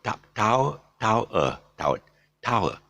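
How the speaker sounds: TOWER repeated as a gliding triphthong. Shown as a demonstration. Teacher explaining that tower has a triphthong, demonstrative repetition. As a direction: sound out "tower", ta first, then the whole glide. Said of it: "it's actually a triphthong".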